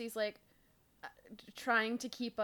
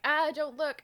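louder, higher hurried warning; mock alarm; 6 semitones higher, 7 dB louder than usual. Host plays Cassie spotting Jake at the mall, mock alarm. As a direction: hiss it urgently, half joking. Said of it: "Cassie's like".

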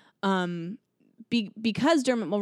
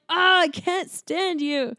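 exasperated; 10 semitones higher, 4 dB louder, slower than usual. Pretend. Exasperated at the villain.

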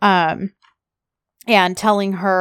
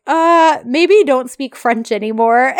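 laughing flustered; 5 semitones higher, 5 dB louder, slower than usual. Retold or imitated. Flustered Edda quoted, laughing.

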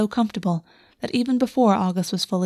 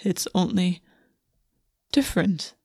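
wondering whisper. Acted. Prince speaks wonderingly.

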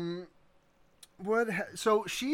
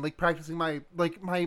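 normal talking voice

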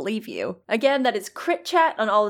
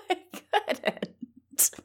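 whispered; 7 semitones higher, 9 dB quieter than usual. Acted. Joking about carbon monoxide leak.

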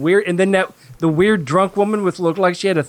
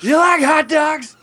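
silly put-on voice; 9 semitones higher, slower than usual.

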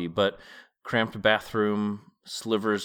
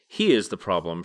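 mild shout; 3 semitones lower than usual. Acted. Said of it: "shouted Chernobog".

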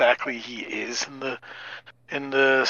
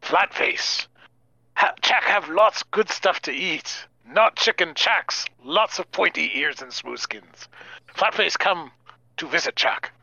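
slightly higher, simple-speaking creature; 4 semitones higher than usual. Acted. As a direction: talk like a crude little monster. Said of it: "say 'em out in character".

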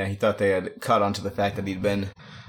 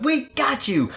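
triumphant bust shout. Acted. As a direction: burst in and shout it. Imagined bust.

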